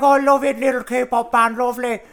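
high, gushing talent-show judge; Louis Walsh impression. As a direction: coo over a little pop band. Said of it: "Louis Walsh, he loved them".

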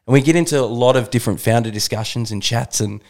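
breathless intro read; rushing through out of breath; running out of air. Real, not acted. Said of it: "I'm running out of breath".

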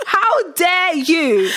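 very slow, drawn-out how dare you; mock indignant. Child inwardly defying the aunt, slow mock indignation. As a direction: stretch it out in mock outrage.

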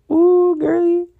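high, loud delighted squeal; excited squeal. Real, not acted. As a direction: gush over the nail. Admiring removed nail.

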